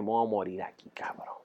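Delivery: breathless dying whisper, barely audible; weak whisper. Retold or imitated. Whispering to his friend that he is dying here. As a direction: whisper it like you can't breathe. Near death, dying in a box.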